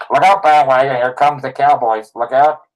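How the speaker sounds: loud, high hype yell for the Cowboys; bandwagon cheer. Acted. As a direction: holler like a fan jumping on the bandwagon. Fan cheering on his Cowboys.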